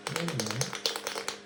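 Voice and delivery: slow, theatrical wait a minute; mock surprise. Shown as a demonstration. Magician interrupting the kids' spell in hammed-up surprise. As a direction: stop the chant in pretend surprise. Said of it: "wait till right after they say cadabra".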